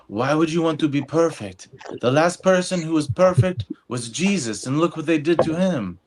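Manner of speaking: lightly voiced Ecuadorian dad with an accent; impression of dad. Son imitating his Ecuadorian dad's advice, a light accent. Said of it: "I do an impression of my dad".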